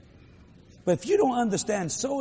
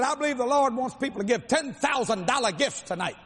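offering appeal; 6 semitones higher than usual. Retold or imitated. Imitating offering-taker's appeal.

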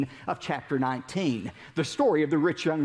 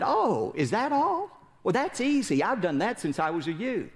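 smug rich ruler; 5 semitones higher than usual. Acted. Smug ruler acted in dialogue.

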